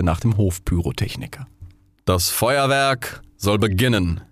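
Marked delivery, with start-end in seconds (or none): 2.1-4.2 king. Acted. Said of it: "sagte der König".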